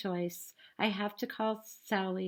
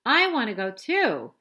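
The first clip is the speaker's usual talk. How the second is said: mock scream; 2 semitones higher, 7 dB louder than usual. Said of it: "Santa screams".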